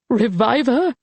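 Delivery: sharp high incredulous question; shocked, near hysterical echo; hysterical disbelief. Acted. Colette echoes his words in shocked disbelief. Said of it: "beginning to feel hysterical".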